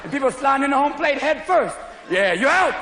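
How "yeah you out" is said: loud umpire call; umpire's shout. Retold or imitated. Umpire calling runner out.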